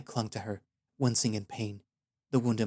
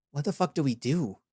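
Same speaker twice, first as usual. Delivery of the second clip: higher, louder alarmed badger voice; alarmed warrior; 5 semitones higher, 3 dB louder than usual. A narrator's reading. Tarki, alarmed, asks wounded Aya what to do. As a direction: blurt it out in panic.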